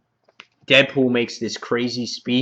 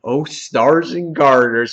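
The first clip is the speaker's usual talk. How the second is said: slow, drawn-out exclamation of shock; imitated astonishment, stretched out; mock freak-out; 4 dB louder, slower than usual. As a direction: act mildly freaked out. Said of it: "like, freaking out".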